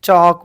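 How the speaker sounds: चॉक with the L dropped, emphatic; silent L. Shown as a demonstration. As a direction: say चॉक loudly, vowel straight into K. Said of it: "एल silent आ जा रहा".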